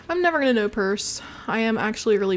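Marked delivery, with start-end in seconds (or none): 0.1-1.2 "purse" said in place of peace; saying "purse" as a joke; purse said on purpose. Shown as a demonstration. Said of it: "I almost said purse".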